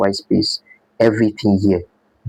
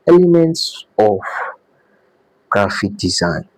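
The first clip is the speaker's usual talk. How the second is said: announcing a topic; slower than usual. Real, not acted.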